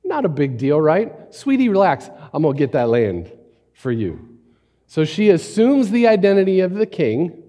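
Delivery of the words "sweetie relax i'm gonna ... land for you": sweet scheming wife. Retold or imitated. Jezebel soothes Ahab.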